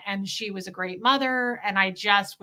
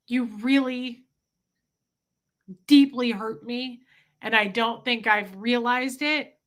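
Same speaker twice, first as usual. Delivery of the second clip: sincere speech to father. Retold or imitated. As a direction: let the hurt show in each line. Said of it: "I would just say something like".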